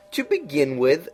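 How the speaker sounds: high, slow, drawn-out cat voice; lofty knowing cat, high and slow; Cheshire Cat voice. A narrator's reading. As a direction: purr it out like a sly grinning cat.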